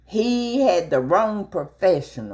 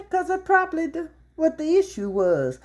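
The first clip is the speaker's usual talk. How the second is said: laughing; 11 semitones higher, faster than usual. Retold or imitated. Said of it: "I laughed".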